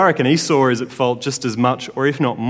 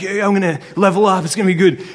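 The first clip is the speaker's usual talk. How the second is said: mock gamer kid, pitched up; lightly voiced indoor kid; 5 semitones higher, faster than usual. Youth speaker imitating Jacob at his Xbox, higher indoor-kid voice. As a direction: play a hint of an excited indoor kid. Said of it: "He's like the indoor kid".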